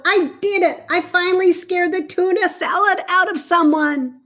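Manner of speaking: little monster gloating happily; triumphant. Acted. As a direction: crow over finally scaring someone. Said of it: "cheered Leonardo".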